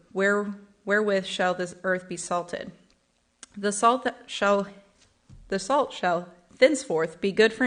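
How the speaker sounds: measured, solemn Bible reading; formal scripture recital. Acted. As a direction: read the verses with reverent weight. Reads scripture aloud.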